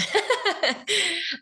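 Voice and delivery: bright laugh, high pitched; real laugh. Real, not acted. Laughs at her own voice.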